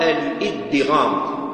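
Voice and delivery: الإدغام with a doubled dal, al-iddighām. Shown as a demonstration. Teacher giving the Basran form, الإدغام with doubled dal. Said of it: "الإدغام بالتشديد".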